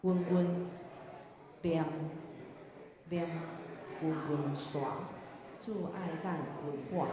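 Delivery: word-by-word verse reading; reading hymn lyrics. Shown as a demonstration. Teacher reading hymn words to the class, deliberate recitation. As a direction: say each phrase separately, with long pauses. 咱先做来读第一节歌词.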